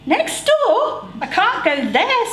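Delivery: high frightened squeak; boy squeaking in fright to his mum. A narrator's reading. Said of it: "Stan squeaked".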